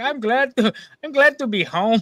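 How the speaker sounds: put-on Quebecois accent. Retelling a friend's comment on coming home: imitating a friend's Quebecois accent. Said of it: "he's still got the Quebecois accent".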